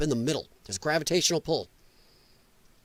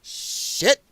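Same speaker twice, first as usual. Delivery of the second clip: hushed curse; 2 semitones higher than usual. Retold or imitated. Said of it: "And going".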